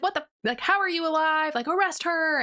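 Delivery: high-pitched mock shock into an order; incredulous outburst. Supreme finds her alive and orders arrest, incredulous. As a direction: act a flabbergasted ruler.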